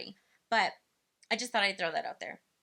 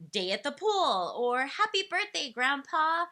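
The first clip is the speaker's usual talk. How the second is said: reading captions aloud; 4 semitones higher, 5 dB louder than usual. Shown as a demonstration. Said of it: "write simple phrases for them underneath".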